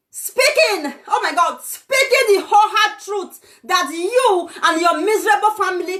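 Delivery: excited proud yell; laughing shout. Real, not acted. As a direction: crow triumphantly with a laugh.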